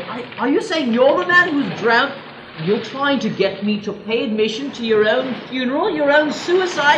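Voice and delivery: stammered, rising incredulous question; appalled disbelief. Acted. Appalled at paying to see a suicide.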